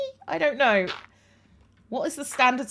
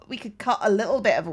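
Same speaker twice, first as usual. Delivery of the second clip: usual speaking voice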